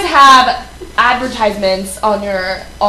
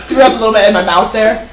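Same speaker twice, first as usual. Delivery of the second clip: 1 laughing; 3 semitones lower, faster than usual. Real, not acted. Laughing at gross remark.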